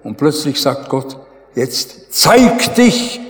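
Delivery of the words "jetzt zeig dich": slow, solemn voice of God; God's slow solemn command. Retold or imitated. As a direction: speak slowly as God commanding. God speaking in retold story.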